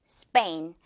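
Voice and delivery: "스페인" with a tense 빼 sound, low and clipped; tensed p. Shown as a demonstration. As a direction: say "스페인" with a hard unaspirated p. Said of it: "스페인 이렇게 발음을 해줘야".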